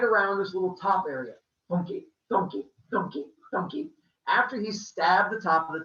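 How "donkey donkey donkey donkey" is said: short rhythmic thunking syllables; stabbing noises. Acted. Storyteller imitating a knife stabbing turtle shell, rhythmic thunks. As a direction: punch out each thunk in rhythm.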